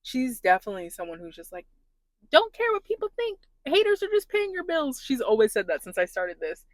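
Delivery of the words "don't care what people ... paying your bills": higher and louder, a defiant sister; imitating bold sister. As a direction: toss it off like nothing can touch you. Quoting her bold sister.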